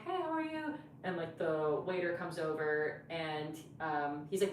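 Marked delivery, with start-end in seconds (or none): 0.0-0.7 retold greeting. Acted greeting to date.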